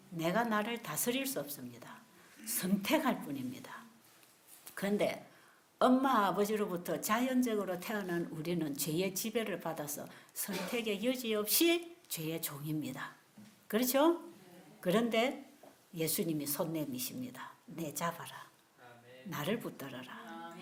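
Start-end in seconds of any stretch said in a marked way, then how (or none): 0.1-3.8 whisper. Real, not acted. Whispered conclusion. 15.9-20.5 hushed, lower tender plea; soft voice of Jesus. Acted. Jesus speaking to the sinner, hushed and tender.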